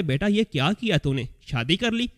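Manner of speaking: stunned mother asking her son; shocked question. Retold or imitated. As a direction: ask it as if you can't believe he married. Mother shocked at son's secret marriage.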